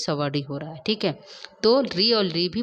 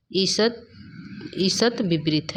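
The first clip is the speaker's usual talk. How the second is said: slow deliberate term; slower than usual. Shown as a demonstration. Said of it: "क्या है दोस्तों?".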